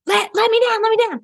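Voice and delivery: high, pleading mock whimper; whiny plea. Mocking Lauren stuck in the harness, high whiny plea. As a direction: beg to be let down like a scared kid. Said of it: "Lauren's like".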